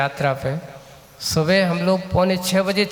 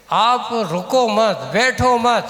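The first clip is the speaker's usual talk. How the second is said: higher, forceful exhortation; raised, insistent coaching of tired walkers; emphatic urging; 4 semitones higher, 4 dB louder, slower than usual. Retold or imitated. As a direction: press each command home firmly. Exhorting walkers not to stop.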